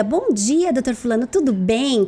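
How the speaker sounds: bright, upbeat hello to a doctor, pitch lifted on the first words; cheerful phone greeting. Shown as a demonstration. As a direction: greet the client like a cheerful young woman. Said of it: "Agora, se você liga". (saudação alegre ao telefone para o doutor)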